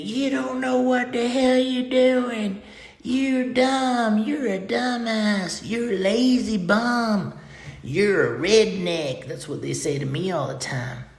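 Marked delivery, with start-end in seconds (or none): 0.0-9.3 high, slow mock yelling of insults; mock screaming partner. Partner screaming insults at him, high mock yell. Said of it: "She starts screaming at you".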